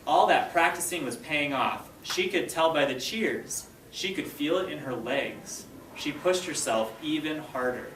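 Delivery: slow, expressive storybook narration; story read-aloud. A narrator's reading. Teacher reading the race scene to her students, expressive read-aloud. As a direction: read it to the class, building the race. Reads chapter aloud to class.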